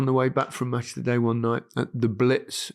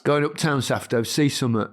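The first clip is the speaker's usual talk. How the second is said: Leicester, going up town, Safto, see summit; Leicester accent. Shown as a demonstration. Asked to say it again, Leicester accent. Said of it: "Say it again".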